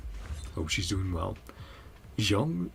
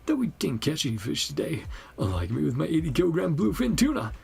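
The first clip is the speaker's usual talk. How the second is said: animated, swooping complaint; a touch of hearty showing off; lively game character proud of fishing; lightly voiced boastful angler; 4 semitones higher than usual. Voices the same game patient.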